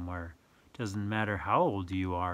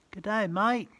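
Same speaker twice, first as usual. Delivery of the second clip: high, bright Aussie twang; playful Aussie greeting; 10 semitones higher, 5 dB louder than usual. Acted. Repeating the book's greeting to the child, playful. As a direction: toss off the greeting like a true local.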